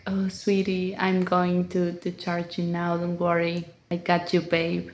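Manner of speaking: softly cooing to a loved one; sweet talk. Retold or imitated. To her speaker while charging it, soft cooing. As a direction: soothe it like a partner. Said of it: "I do talk to her like".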